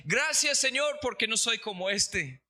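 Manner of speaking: imita una oración jactanciosa, arrancando bien arriba; fariseo jactancioso imitado. Retold or imitated. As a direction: agradece en tono agudo, como quien presume ante Dios. Fariseo orgulloso orando en voz alta. (imitando una oración jactanciosa, con tono elevado)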